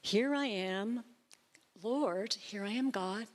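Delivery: slow, drawn-out offering of oneself to God; open, surrendered posture. Acted. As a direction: answer God slowly, as if presenting yourself. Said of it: "it's really like doing this".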